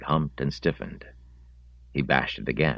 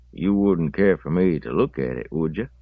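lightly voiced country man, somewhat raised; contemplative pig owner; 4 semitones higher, 5 dB louder than usual. Owner asks the boy to let him see the pig, contemplative country voice. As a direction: play the owner politely angling for a look.

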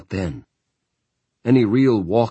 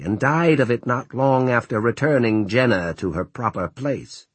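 put-on higher, sharp scolding old nun; 5 semitones higher than usual. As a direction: lecture him like a stern sister. Sister Mary scolding Roland.

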